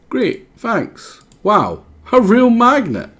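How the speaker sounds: a generous creature trading a gift; high character voice. Acted. Voicing a game character.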